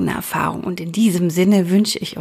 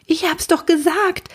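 much higher squirrel voice, told-you-so; squirrel scolding; 10 semitones higher than usual. Acted. Squirrel scolds Vincent after he falls, high told-you-so. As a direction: chide him like a small know-it-all squirrel. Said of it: "rief das Eichhörnchen kopfschüttelnd".

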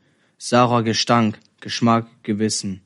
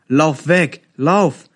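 high, urgent shout; screaming; 6 semitones higher, 4 dB louder, much slower than usual. A narrator's reading. Operator screams at the child on the screen, desperate shout. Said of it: "schrie ich".

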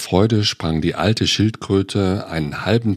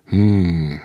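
understanding hum. Acted. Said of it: "brummte die Schildkröte verständnisvoll".

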